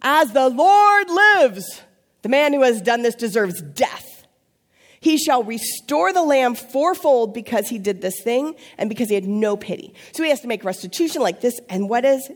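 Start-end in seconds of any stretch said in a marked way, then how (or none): 0.0-10.0 furious king's oath. Acted. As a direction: swear it like an outraged king, every word dragged out. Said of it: "He's so mad".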